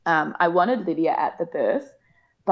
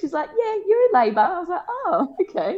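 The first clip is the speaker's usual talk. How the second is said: much higher, playful mock surprise; giggly retelling; 11 semitones higher than usual. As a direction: tell it light and bubbly. Retold dialogue with midwife, giggly.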